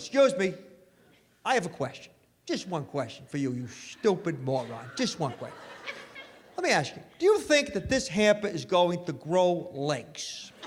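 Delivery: wife lecturing husband about the hamper; sarcastic wife. Retold or imitated.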